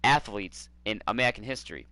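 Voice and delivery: a sports-radio Boston rant with the accent laid on; Boston sports fan rant in a put-on accent; thick Boston accent. Shown as a demonstration. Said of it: "let me go a little bit deeper here".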